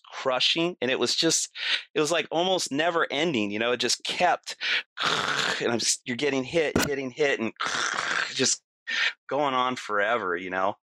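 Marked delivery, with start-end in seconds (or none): 4.6-5.6 imitated crunch of metal; voiceless rushing crash noise; crushing noise. 7.6-8.3 imitated crunch of metal; voiceless rushing crash noise; crushing noise.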